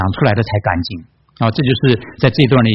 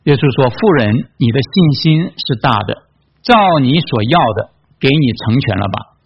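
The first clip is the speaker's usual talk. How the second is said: measured, spaced-out Bible reading; scripture reading. A narrator's reading. Preacher reading the Canaanite woman's story to congregation, measured reading. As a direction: read the passage out deliberately, pausing between phrases.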